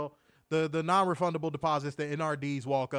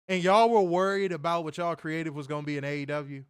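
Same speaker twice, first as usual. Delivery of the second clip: mocking taunt. Real, not acted. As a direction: rub it in with a sneer. Taunt repeated louder.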